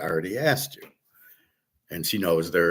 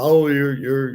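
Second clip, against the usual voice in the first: brief raised, louder mimicry; mock yelling; 5 semitones higher, 4 dB louder, slower than usual. Imitating the lady yelling at the poor girl, mock yelling. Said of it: "And she's yelling".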